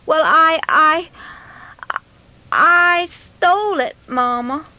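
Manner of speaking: put-on high, halting child's voice; nervous boy owning up slowly; fearful confession. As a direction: stammer out a dreaded confession. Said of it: "stood there in fear and trembling".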